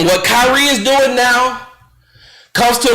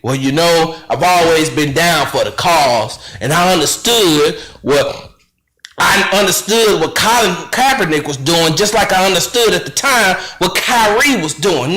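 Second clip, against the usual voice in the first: lower, smug mock Stephen A. voice; 6 semitones lower than usual. Host mocking Stephen A.'s future excuse, low smug voice. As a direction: sneer his future excuse in a low put-on voice. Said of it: "I got to hear you say".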